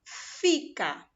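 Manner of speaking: two clear beats in "Fica"; syllables shown. Shown as a demonstration. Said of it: "abriu a boca duas vezes". ("Fica" em duas sílabas marcadas)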